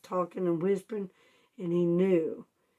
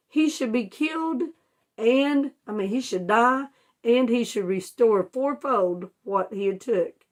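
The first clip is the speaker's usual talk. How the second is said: voicing an angry king, high and loud at the start; mock outrage from King David; angry demand; 4 semitones higher, 4 dB louder than usual. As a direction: demand the man be punished, heated. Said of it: "He was angry".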